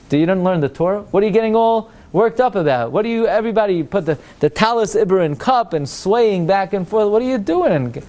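mock-incredulous, rising pitch; incredulous scoffing. Comic-book reader to swaying worshippers, incredulous scoffing. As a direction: question everyone's fuss in mild disbelief. Acts man scoffing at praying crowd.

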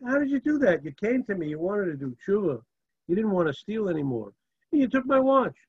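can't believe you did this; incredulous rabbi. Retold or imitated. Rabbi confronts thief.

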